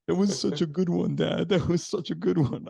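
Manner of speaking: put-on high, excited kid voice praising dad; little son's voice. Son's words voiced in story.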